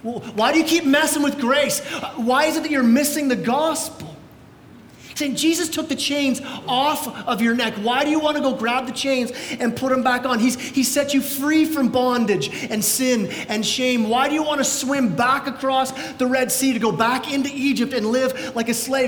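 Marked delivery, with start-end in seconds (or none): 0.0-4.1 worked-up, higher-pitched rebuke; acting out an indignant scolding; fired up. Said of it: "he is pretty fired up about this". 5.4-19.1 urgent, raised-pitch pleading questions; acting out a mild rebuke; fired up. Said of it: "he is pretty fired up about this".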